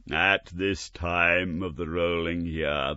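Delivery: slow, lightly eerie voice; a hint of a mournful ghost; slow mournful spectre. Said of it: "the spectre said".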